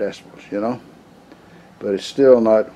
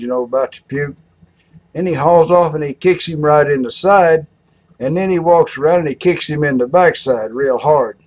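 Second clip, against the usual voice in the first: lively country yarn, pitch often raised; emphatic comic storytelling; animated joke telling; 4 semitones higher than usual. A narrator's reading. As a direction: tell the kicks with relish.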